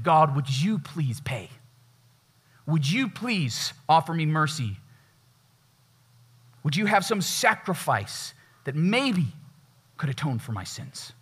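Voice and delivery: slow, humble begging prayer to God; slow humble plea. Acted. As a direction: ask for mercy slowly, head bowed. Sinner begs God for mercy.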